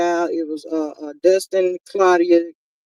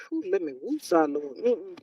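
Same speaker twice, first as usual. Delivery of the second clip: calming exhale; 4 semitones lower, 13 dB quieter than usual. Retold or imitated. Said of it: "I be like".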